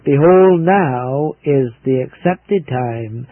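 "Behold" loud, then slow; preaching. Real, not acted. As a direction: proclaim the verse slowly. Preacher quoting the Bible.

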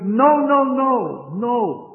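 loud, high, insistent no no no; emphatic no. Real, not acted. Preacher to the congregation, loud insistent refusal. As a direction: shut the idea down hard. Preacher rejecting "no longer used.

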